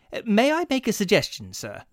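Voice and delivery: timid clerk. Acted. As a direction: nervously offer an idea. Desperate clerk suggests.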